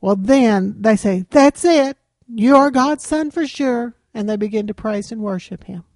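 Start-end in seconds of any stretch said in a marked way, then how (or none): 1.3-3.9 louder and higher, suddenly convinced; excited exclamation. Acted. Disciples in the boat praising Jesus, excited outburst. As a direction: burst out like you've just seen a miracle.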